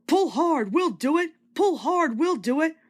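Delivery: high rhythmic alternating chant; two engines pulling as one; puffing together. A narrator's reading. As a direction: chug the two lines like engines. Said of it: "they puffed together".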